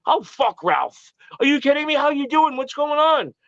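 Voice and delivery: high, eager mock greeting; imitating Howard. Howard brushing off Ralph to greet him, high and eager. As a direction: pitch it up like a glad old boss. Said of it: "He goes".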